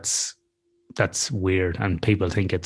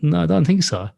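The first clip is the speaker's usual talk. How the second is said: high reassurance; 9 semitones higher than usual. Retold or imitated. Reassuring friend.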